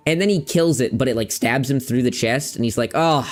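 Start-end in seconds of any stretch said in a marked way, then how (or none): 2.9-3.3 higher, relishing acted cry; relieved, hammed-up joy; mock excitement. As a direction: play a hero thrilled to be dying. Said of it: "he's literally so excited".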